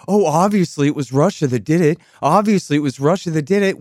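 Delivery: sarcastic mock of media talking points; mocking parrot. Host mocking media pundits, sarcastic parroting. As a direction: parrot the line with scorn. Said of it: "every media minor bird in America repeats the same thing".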